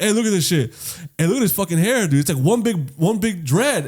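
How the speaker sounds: high-pitched excited showing-off; imitated amazement. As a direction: play the barber calling others over to look. Barber showing the hair to others.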